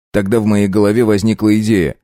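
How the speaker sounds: usual speaking voice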